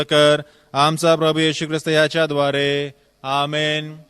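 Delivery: brisk, even recitation of a set prayer; liturgical prayer. Acted. Priest leading the congregation in prayer, brisk and even. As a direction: rattle through the collect at a steady clip.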